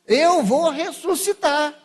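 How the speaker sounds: slow, loud, lightly voiced solemn promise; solemn voice of Jesus. Preacher voicing Jesus's promise, slow and solemn. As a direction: proclaim it slowly like a prophecy. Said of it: "Jesus prometeu. Falou".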